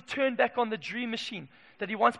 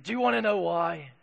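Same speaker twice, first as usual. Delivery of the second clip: Kim Hughes voice; 4 semitones lower than usual. Retold or imitated. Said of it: "in his voice".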